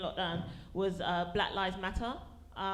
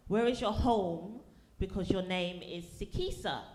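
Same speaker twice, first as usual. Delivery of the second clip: slow, deliberate questioning; slow prying driver; slower than usual. Retold or imitated. Taxi driver to the comic, slow prying. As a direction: spell out the nosy question slowly. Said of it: "He was like".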